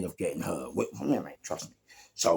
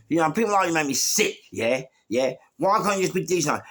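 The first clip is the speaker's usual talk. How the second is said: high-pitched, indignant lecture; retold angry scolding; 7 semitones higher, 3 dB louder than usual. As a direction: act out berating a bully. Acted scolding of beaten bully.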